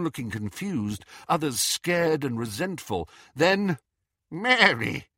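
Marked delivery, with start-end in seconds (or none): 4.3-5.1 higher, urgent call; raised cry of a name. Acted. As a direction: call to your wife across a hall. Husband calls out to wife.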